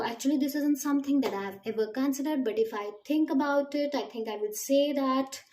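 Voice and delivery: pondering aloud, drawing out the last words; unrehearsed-sounding, thoughtful exam answer; acted thinking. Shown as a demonstration. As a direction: stall as if working out the answer. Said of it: "you have to act a little".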